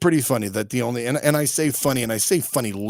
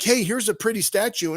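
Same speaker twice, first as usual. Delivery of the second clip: mock sweet voice; 10 semitones higher than usual. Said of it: "It's like".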